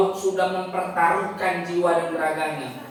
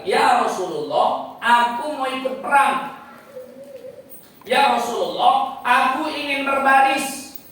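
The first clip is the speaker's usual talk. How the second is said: put-on higher, louder boyish begging; eager boy pleading; 7 semitones higher, 5 dB louder than usual. Twelve-year-old boy begging the Prophet to fight, eager plea. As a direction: plead like a keen young boy. Boy begs to join battle.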